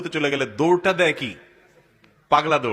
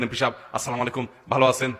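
breathless rushed greeting; out of breath; 5 semitones lower than usual. Shown as a demonstration. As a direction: pant through the greeting. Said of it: "এরকম করবেন?".

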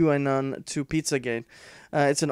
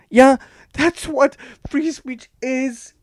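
higher, slow sarcastic jab; sarcastic drawl; 11 semitones higher, 4 dB louder, slower than usual. Acted. Vlogger sneering at the article, slow mocking sarcasm. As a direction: drag it out in disbelief.

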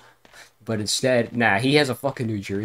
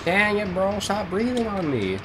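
annoyed outburst; 11 semitones higher than usual. Real, not acted. Annoyed at friend while playing.

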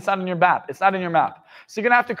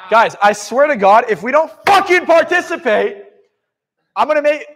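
mock anger; 4 semitones higher, 5 dB louder than usual. Mock threat to audience.

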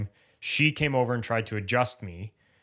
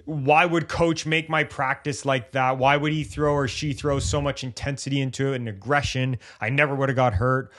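frustrated athlete; 3 semitones higher than usual. Retold or imitated. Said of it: "they get angry".

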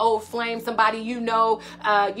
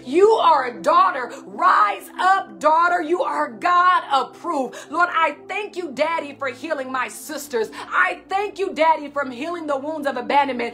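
preaching at full force; 3 semitones higher than usual. Acted. Preacher rousing her sisters as daughters of God. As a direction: build the fervour line by line.

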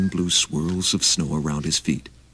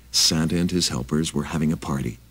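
ordinary delivery

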